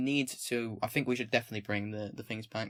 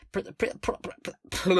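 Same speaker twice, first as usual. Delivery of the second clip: spluttering higher gibberish stammer; mock tongue-twister breakdown; 6 semitones higher than usual. Streamer joking about saying the line fast, mock stammering. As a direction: trip over the syllable till it dissolves.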